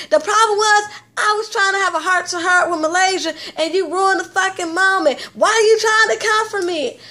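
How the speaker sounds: imitating a drunk housemate snapping at her friend; imitated angry yelling.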